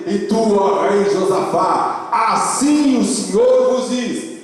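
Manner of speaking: high, drawn-out solemn declamation; scripture proclamation. Acted. Pastor proclaims Jaziel's message to the congregation, high ringing declamation. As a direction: read it out high, stretching the names and phrases.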